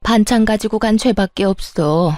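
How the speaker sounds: fake crying. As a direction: play the wronged mother with a put-on lament to her son. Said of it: "입으로만 울고 있는 시모".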